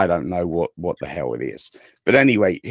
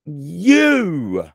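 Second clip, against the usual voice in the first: mock greeting; 7 semitones higher, 3 dB louder than usual. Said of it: "And I'm like".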